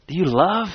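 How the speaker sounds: "love" pressed in a lifted question; stress on love. Shown as a demonstration. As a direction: ask "Do you love?" pointedly, leaning on "love". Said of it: "I'm trying to emphasize that word".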